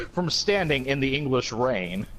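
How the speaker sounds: dramatic lyric reading. Acted. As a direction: read it like grave poetry, taking your time. Reads a band's lyrics aloud.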